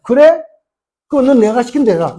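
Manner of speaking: high loud challenge, then order; God's reply. Acted. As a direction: snap back like a commanding God.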